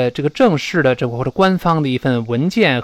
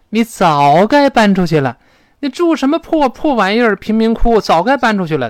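higher, louder exasperated telling-off; reproachful scolding; 6 semitones higher, 4 dB louder than usual. Acted. Friend scolding a girl about her shabby flat, reproachful. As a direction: scold them for not moving out sooner.

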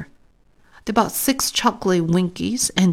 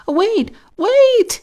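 a high, loud call after the bus; 5 dB louder than usual. A narrator's reading. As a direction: shout for the leaving bus to stop. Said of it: "he called".

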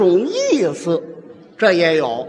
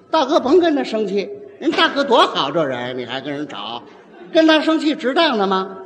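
mild sweet talk to husband. Acted. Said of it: "哪有这样说的".

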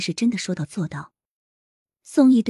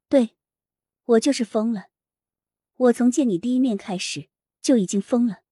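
hysterical yelling; 4 semitones higher than usual. Acted. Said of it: "歇斯底里地吼叫着".

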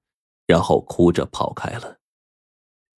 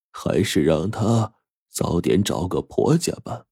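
slow, softer resigned master; sighing; 3 dB quieter than usual. Acted. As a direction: explain it with a weary sigh. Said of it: "油灯法师叹了口气说".

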